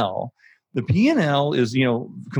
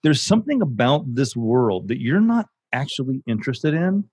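incredulous; 3 semitones higher than usual. Retold or imitated. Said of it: "I would be like".

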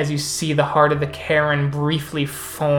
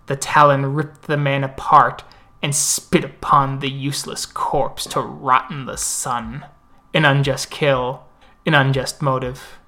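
epic fantasy narrator. Acted. NPC tells a legend at the moot.

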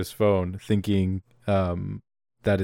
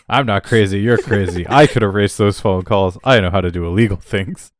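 louder, lower comic protest; mock indignant retort; 3 semitones lower, 5 dB louder than usual. Agent argues with partner over phone calls, mock indignant. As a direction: fire back with hammed-up indignation. Acting out Peter's quarrel with Mathis.

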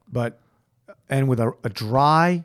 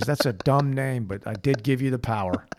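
God voice. Retold or imitated. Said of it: "God says".

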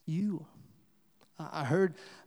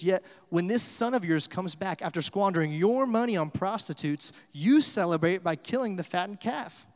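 mildly indignant accusation; mad older brother; 3 semitones higher, 4 dB louder than usual. Retold or imitated. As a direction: retell the brother's grievance with some bite. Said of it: "The older brother gets mad".

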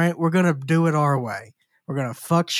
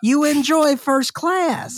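laughing; 8 semitones higher, much slower than usual. Real, not acted. Laughing through a teasing point.

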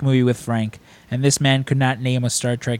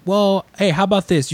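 higher-pitched imitation of a persuader; eager sales pitch; 9 semitones higher than usual. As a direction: pitch it like a hopeful fan. Strangers pitch Frank a convention.

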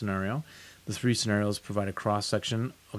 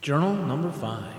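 tin can sound; 4 semitones higher than usual. Real, not acted. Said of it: "Sounds like you're in a tin can".

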